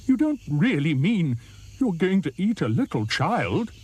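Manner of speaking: shocked hippo. Acted. Hippo asks the crocodile in shocked disbelief, high. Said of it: "said Humpy Rumpy".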